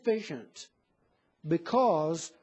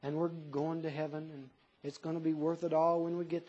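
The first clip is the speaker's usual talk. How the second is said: complacent Christians; 5 semitones lower, 7 dB quieter than usual. Retold or imitated. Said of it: "A lot of people can preach that and say".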